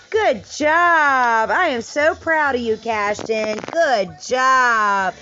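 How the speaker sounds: excited praise. Real, not acted. Praising toddler warmly.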